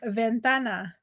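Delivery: "ventana" stressed on the middle syllable TA. Shown as a demonstration. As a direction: say "ventana" slowly as ven-TA-na. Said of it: "the stress is on the tan".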